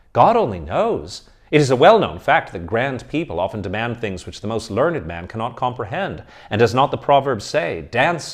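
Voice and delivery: lightly voiced young student, protesting; hint of an indignant seminarian; student pleading. Student argues his case.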